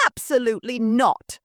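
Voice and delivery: snapping. Acted. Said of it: "Missus Brocket snapped".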